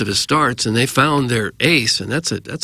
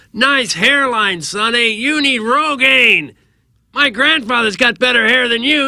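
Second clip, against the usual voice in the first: play-acted, very high, drawn-out jeering scream; 11 semitones higher, 4 dB louder than usual. Retelling a fan at the railing heckling a player, imitating a heckler screaming. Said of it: "It's screaming at him like this".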